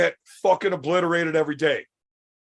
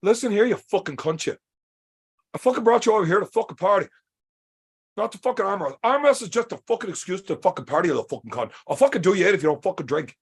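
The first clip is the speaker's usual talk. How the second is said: Marcus's mock rant; 2 semitones higher, faster than usual. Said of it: "He's like".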